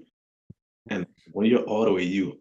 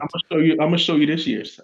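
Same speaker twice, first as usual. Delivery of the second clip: higher, louder teasing promise; playful boast; 7 semitones higher, 6 dB louder than usual. Real, not acted. Boasting to the guys he'll show them this year's. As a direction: hype it up like a proud boast.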